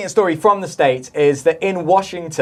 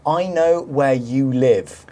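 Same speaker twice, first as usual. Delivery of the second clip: menacing quote; 3 semitones lower, much slower than usual. Retold or imitated. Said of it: "and said".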